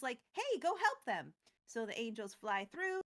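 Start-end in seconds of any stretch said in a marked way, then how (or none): 0.3-1.3 mild mock shout. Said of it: "Giada shouts to the angels".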